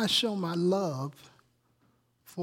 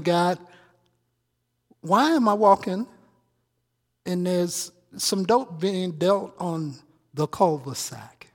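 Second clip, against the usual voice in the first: louder, slow, pleading question to God; loud lament to God; 7 dB louder, slower than usual. Retold or imitated. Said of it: "And I'm saying".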